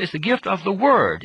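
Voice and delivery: "word" hit firmly and held, falling at the end; stress on word. Shown as a demonstration. Preacher corrects a common misunderstanding, stressing "word". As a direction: lean on "word" to correct the listener. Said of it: "Let me stress that point".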